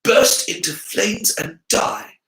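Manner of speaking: slow, high mock flattery; sarcastic gush. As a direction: sneer through fake delight. Harry mocking his earlier gushing.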